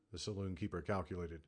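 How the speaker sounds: ordinary delivery, nothing marked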